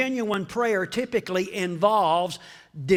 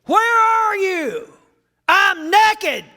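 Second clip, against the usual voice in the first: high loud two-voice exchange; God and Adam exchange; 11 semitones higher, 9 dB louder, slower than usual. Acted. Preacher acting God and Adam, loud exchange. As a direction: play both sides of the dialogue. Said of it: "God and Adam dialogue".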